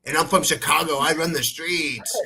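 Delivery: a hint of a swaggering tough guy, slowing at the end; lightly mock his boastful street talk; mocking Bilal Muhammad. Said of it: "and he, like, talks like this".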